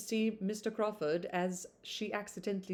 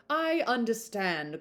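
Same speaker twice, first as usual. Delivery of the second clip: firm, drawn-out I understand, a touch louder; cried out; 4 semitones higher, 4 dB louder, slower than usual. Acted. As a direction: cut her off with emphasis. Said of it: "cried her uncle".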